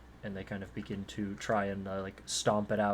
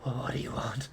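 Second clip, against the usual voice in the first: frightened halfling; 3 semitones higher than usual. Acted. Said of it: "strained breath escape him".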